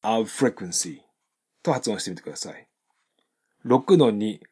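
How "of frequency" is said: "of frequency" slow, V melting into F; seamless V to F. Shown as a demonstration. Teacher invites learners to copy, "of frequency" without a break. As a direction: voice the V then turn it into F in "of frequency". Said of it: "切れ目なくFに変わっていく形で".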